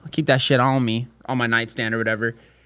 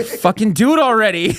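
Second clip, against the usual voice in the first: laughing; 7 semitones higher than usual. Pretend. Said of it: "she's like".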